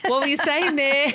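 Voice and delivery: lightly put-on child calling Mum to attention; imitating puzzled kids. Kids catching their distracted mum mid-sentence, imitated puzzled question.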